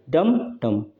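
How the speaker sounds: डम, डम as two separate weighted beats; two equal stresses. Shown as a demonstration. Teacher showing a spondee to students, डम, डम both stressed. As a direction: give each डम its own full stress. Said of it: "stressed रहते हैं".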